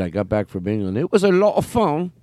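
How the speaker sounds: put-on British accent creeping in, lifting at the end; slight British accent. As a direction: layer in a hint of British. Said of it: "was layering in her British accent".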